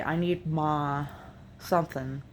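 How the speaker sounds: heavier Appalachian "I need ma", the I flattened to "ah"; my Appalachian accent. Shown as a demonstration. Vlogger showing her local Appalachian accent. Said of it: "I'll say".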